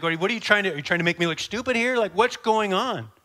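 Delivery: acted rising exasperation, loud and quick; getting mad. Soldier afraid of looking stupid, getting mad at the pack carrier. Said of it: "He's gonna start getting mad".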